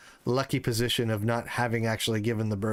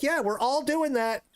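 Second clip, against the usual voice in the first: mocking other parents; 13 semitones higher than usual. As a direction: tease like bored fellow parents. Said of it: "They're like".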